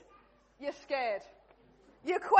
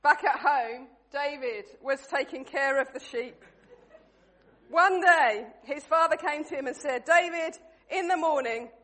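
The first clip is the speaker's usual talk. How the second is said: story narration; 3 dB louder than usual. A narrator's reading. Narrates the play to the room.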